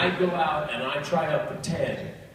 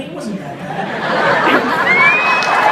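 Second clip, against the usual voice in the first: laughing; 11 dB louder, much slower than usual. Real, not acted. Consoling co-panelist, laughing.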